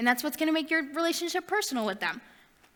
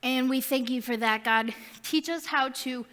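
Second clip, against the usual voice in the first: prayer. Acted. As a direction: pray it gently, winding down to the amen. Closing prayer.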